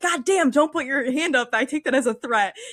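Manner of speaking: play-acted offended, panicky overreaction, high-pitched and freaked-out. Retelling a film scene where a character freaks out at a raised hand: imitating someone freaking out. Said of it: "freaks out".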